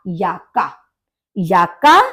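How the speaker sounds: याक्का with J as ya; German pronunciation. Shown as a demonstration. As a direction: model याक्का for learners. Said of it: "या की तरह से pronounce करते हैं". (याक्का, जे को या बोलते हुए)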